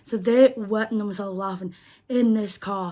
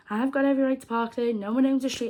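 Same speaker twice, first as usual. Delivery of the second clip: higher, fast and defiant, imitating the woman; indignant retort; 4 semitones higher, faster than usual. Woman insisting she can park there, fast indignant retort. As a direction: toss it back at her, sure she is in the right. Woman arguing over parking spot.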